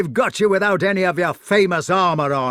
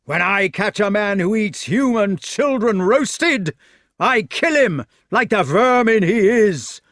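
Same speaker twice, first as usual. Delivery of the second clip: loud, high, scornful rant; furious shouting; 9 semitones higher, 8 dB louder than usual. A narrator's reading. Fat knight refusing his foe a fair fight, shouting furiously. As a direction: bellow with outraged contempt.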